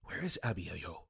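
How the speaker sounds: low hushed question; whispering. Retold or imitated.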